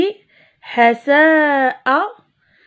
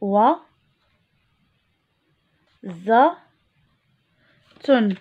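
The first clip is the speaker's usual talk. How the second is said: إوزة split into إي و ز تن with long pauses; teacher segmenting إوزة into syllables; slower than usual. Shown as a demonstration. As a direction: spell out إوزة sound by sound for pupils. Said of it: "لاحظوا معي".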